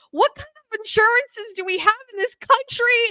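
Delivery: high, loud, tearful rant; crying rant. Retold or imitated. Crying to the scheduler about insurance, high tearful rant. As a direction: sob out the complaint about insurance. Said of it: "I started crying".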